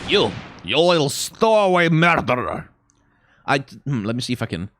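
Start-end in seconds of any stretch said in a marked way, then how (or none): 0.1-2.7 loud, gruff Russian sailor voice; attempted Russian accent. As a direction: bellow it like a bad stage Russian. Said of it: "can't really do a Russian accent when I'm trying to do that voice".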